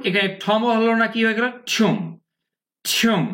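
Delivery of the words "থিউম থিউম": "থুম" with a "yoo" glide, "thyoom"; "yoo" sound. Shown as a demonstration. Teacher drilling the corrected word, "থুম" as "thyoom". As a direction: round "থুম" out through a long "ew". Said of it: "ইউ সাউন্ডটা উচ্চারণ করতে হবে".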